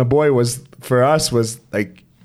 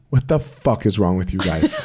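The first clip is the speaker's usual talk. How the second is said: exasperated laugh; 8 semitones lower, slower than usual. Retold or imitated. Wife's exasperated retort, laughing.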